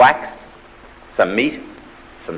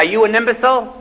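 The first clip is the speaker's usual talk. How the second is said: mock-stern professor; 13 semitones higher, 4 dB louder than usual. Professor challenges standing student.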